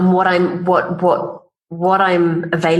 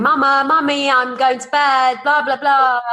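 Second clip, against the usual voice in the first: higher childlike voice, lightly put on; imitating a little boy; 7 semitones higher than usual. Mother imitates her son Leo interrupting her, lightly childlike. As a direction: pipe up like a small son wanting bed.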